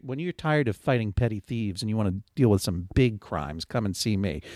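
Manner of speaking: lightly voiced new age moderator; a hint of a new age hippie guru; airy breathy mystical healer. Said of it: "That was a good, um, kinda new age hippie, moderator voice".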